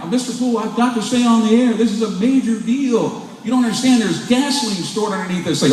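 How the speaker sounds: mock pleading. Retold plea to stay on air.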